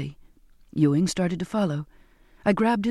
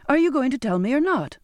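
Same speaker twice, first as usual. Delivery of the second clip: sharp, raised demand; exasperated demand; 6 semitones higher than usual. A narrator's reading. Girl pressing the silent sailors for an answer, exasperated and raised. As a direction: push them for an answer, fed up. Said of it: "in exasperation".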